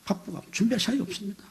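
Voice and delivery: soft, high imitation of an excuse-maker; high, hushed mock excuse; unapologetic excuse. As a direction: mimic a deacon making excuses as if owed. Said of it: "아주 당연한 거죠".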